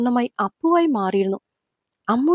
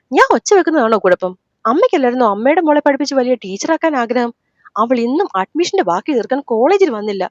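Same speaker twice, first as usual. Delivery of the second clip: mildly angry complaint; 3 dB louder than usual. Acted. Son complains to his mother about the girl skipping college, mildly angry. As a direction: voice raised a touch in irritation. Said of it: "അതേ ദേഷ്യത്തിൽ തന്നെയാണ് അവൻ".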